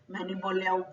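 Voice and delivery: fast, slurred "मैंने बोल लिया हूँ", each word running into the next; slurred together. Shown as a demonstration. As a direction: mumble "मैंने बोल लिया हूँ" quickly, without separating the words. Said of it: "एक दूसरे के ऊपर शब्द आ गए". ("मैंने बोल लिया हूँ" को जल्दी में, शब्द आपस में मिलाकर)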